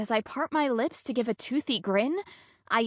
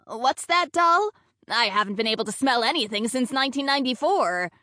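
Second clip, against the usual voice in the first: put-on raised, offhand older woman's voice; lightly voiced elderly coworker; 2 semitones higher than usual. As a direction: lightly play an unbothered old baker.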